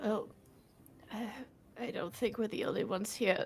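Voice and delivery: very soft, subdued in-character voice; acted tearfulness. Callie speaks up while wiping away tears, softly tearful. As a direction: play it small, just after tears. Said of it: "her tears".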